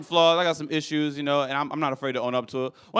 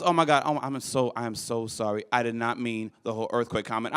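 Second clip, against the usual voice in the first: softer, lowered apologetic voice; sheepish apology; 5 semitones lower, 5 dB quieter than usual. Retold or imitated. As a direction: back down, embarrassed. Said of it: "She goes".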